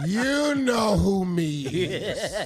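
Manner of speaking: put-on slow slurred drunk caller; drunk dialing. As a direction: drag it out like a drunk call. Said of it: "it sounds like something like this".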